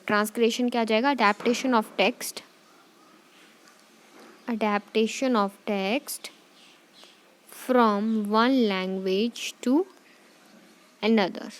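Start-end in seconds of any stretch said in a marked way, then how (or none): 1.1-11.5 very slow, spaced words for notes; slow note dictation. Shown as a demonstration. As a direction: dictate slowly with pauses.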